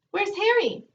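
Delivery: high squawky parrot call. Acted. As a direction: squawk it out like a talking bird. Parrot speaks in story.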